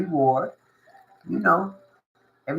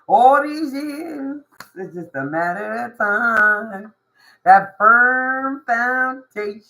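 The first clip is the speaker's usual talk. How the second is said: slow, louder, drawn-out declaration; confident proclaiming; 4 semitones higher, 4 dB louder, much slower than usual. Pretend. The patient one claiming their firm foundation, slow and proud. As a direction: announce it like it's destiny. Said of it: "my deep ass voice".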